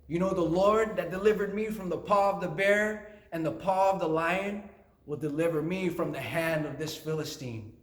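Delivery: mildly impassioned acted declaration; passionate. David pleading his case to the king, passionate. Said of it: "he just started feeling passionate".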